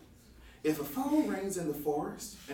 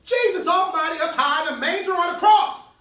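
shocked exclamation; 9 semitones higher, 9 dB louder than usual. Acted.

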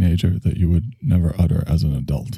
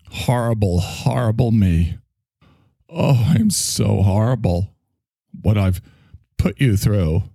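mock self-pity. Mocking the apology.

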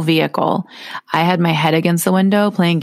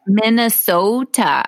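drawn-out Minnesota accent; 4 semitones higher, slower than usual. Shown as a demonstration. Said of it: "How do you say Minnesota?".

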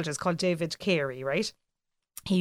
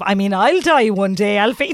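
laughing mock mum; 5 dB louder than usual. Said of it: "But I'd be like".

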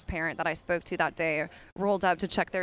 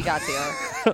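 squeaky high voice. Pretend.

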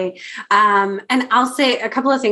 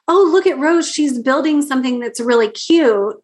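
patronizing; 3 semitones higher than usual. Retold or imitated. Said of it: "In that patriarchal kind of patronizing way".

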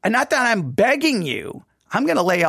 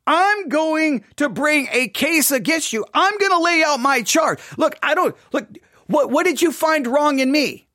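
raised pitch, insistent challenge; making a case; 6 semitones higher than usual. Acted. God laying out a charge against the people, challenging. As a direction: press the charge rather than beg. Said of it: "is not so much, "I'm begging you".

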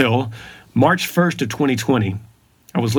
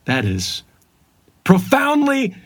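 mock yell. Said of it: "He yells it".

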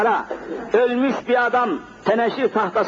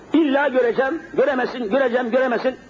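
mildly acted back-and-forth argument, higher pitched; higher-pitched imitation of a stubborn dispute; retold quarrel; 5 semitones higher than usual. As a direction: re-enact two people bickering, voice raised in pitch. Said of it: "çatışma çıkmış".

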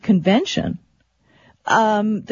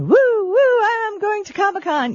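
mock excited fan; 12 semitones higher than usual. Mock excited attendee signing in.

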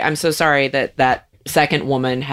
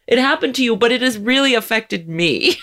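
mocking self-centred white woman; 4 semitones higher than usual. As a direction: drag it out, playing the fake-sympathetic bystander. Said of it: "and still go".

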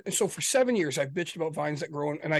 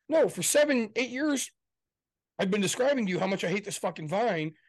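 higher, heated complaint; retold rant; 4 semitones higher than usual. Husband retells ranting to his wife about the vine, heated. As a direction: vent years of frustration.

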